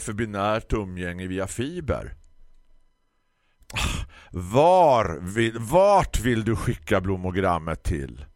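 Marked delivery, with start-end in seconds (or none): 4.3-8.2 louder, irritated shop lady; irritated snort. Acted. Irritated florist snorts the question at the customer. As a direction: snort it out in annoyance. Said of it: "frustade Tisten, märkbart irriterad".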